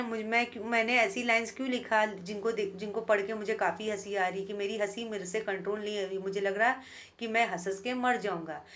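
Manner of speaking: normal talking voice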